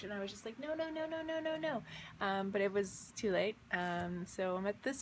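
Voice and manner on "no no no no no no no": high light no no no; panicked refusal, lightly acted; pleading no. Sliding into the tunnel, high pleading no's.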